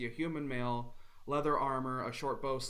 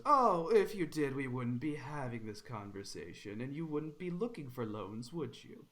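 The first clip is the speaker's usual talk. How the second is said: taunting. Acted. Bandit taunts.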